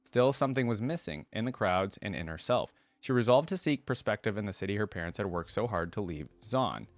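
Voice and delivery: measured read-aloud storytelling voice; story narration. A narrator's reading. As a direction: read it out like a written biography. Reads champion biography aloud.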